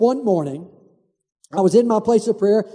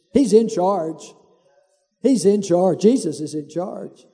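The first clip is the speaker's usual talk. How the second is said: reassuring; 3 semitones lower, slower than usual. Real, not acted. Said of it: "repeated reassurance".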